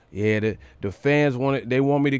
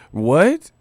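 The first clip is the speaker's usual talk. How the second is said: high, loud laughing disbelief; cracking up in disbelief; laughing what; 5 semitones higher, 6 dB louder than usual. Real, not acted. Vlogger laughing at the British insult in disbelief.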